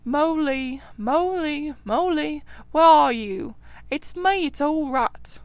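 calling out cheerfully. A narrator's reading. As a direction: call for a lost friend, hopeful. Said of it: "calling out cheerfully".

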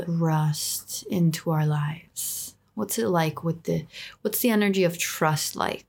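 guided meditation. Acted. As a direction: lead them gently into calm.

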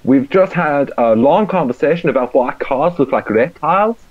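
a put-on German accent that drifts toward Indian; mock German accent. Switching accents mid-update for the podcast, bad German accent. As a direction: read it in a hammed-up German accent. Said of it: "Why have you gone to Indian now?".

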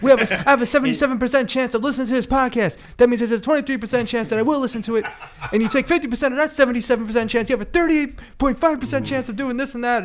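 high, loud wrestler-rant voice, laughing through it; Scott Steiner impression. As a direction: rattle off the math like a ranting wrestler. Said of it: "that's Scott Steiner math".

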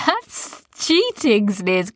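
slow, high teasing; teasing boys. A narrator's reading. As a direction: drawl out cheating high. Boys tease Sniz.

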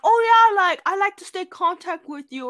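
frat bro. Retold or imitated. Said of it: "You sound like a frat bro".

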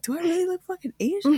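high-pitched laughing question. Retold or imitated. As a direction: giggle through the whole line. Joking about her mirror reflection.

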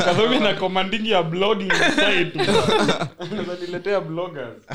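laughing through the words. Real, not acted. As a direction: speak while cracking up. Laughing while talking.

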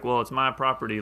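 put-on lightly drawled Southern American accent. Neighbor shrugging off complaints, in a light Southern American accent. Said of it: "I don't know why I did a Southern accent for that".

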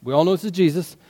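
soft, self-conscious aside; awkward hush. Acted. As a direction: say it under an awkward silence. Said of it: "It's kind of an awkward silence".

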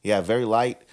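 speaking after a cigar drag; exhaling smoke. Real, not acted. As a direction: talk while letting smoke out. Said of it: "let me take a drag real quick".

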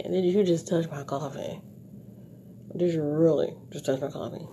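a light mafia menace, "coffee" falling. Shown as a demonstration. Showing a masked face's look, lightly voiced mafia menace. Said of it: "You could do it like the mafia".

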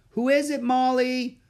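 high, loud call to someone in another room. A narrator's reading. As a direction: call out Molly's name with a question. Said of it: "someone called from inside".

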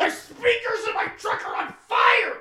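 very high squealed exclamation; hammed-up amazement breaking into laughter; blown-away reaction. Truck driver raving about new music, hammed-up high squeal. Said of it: "and I'm like".

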